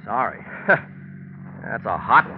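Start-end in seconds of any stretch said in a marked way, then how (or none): 0.5-1.6 a short, breathy contemptuous laugh; a dry laugh of contempt; scornful laugh. Acted. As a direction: scoff at her with a laugh. Scornful laugh at her apology.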